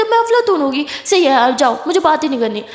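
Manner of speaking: angry retort. Acted. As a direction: flare up and push her away. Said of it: "क्यों इतना गुस्सा कर रहा है".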